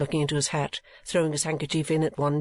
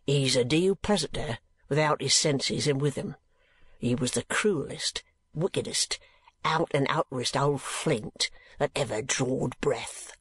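slow rough-spoken keeper, lightly voiced; a plain working man, unhurried; lightly voiced asylum keeper. Keeper rails.

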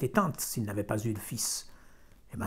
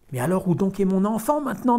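anguished wife; 7 semitones higher, 7 dB louder than usual. A narrator's reading.

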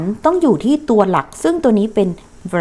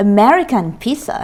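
slow model phrase; much slower than usual. Shown as a demonstration. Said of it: "better than".

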